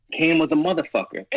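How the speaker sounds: punchline shout. Acted. Stand-up punchline delivered to audience.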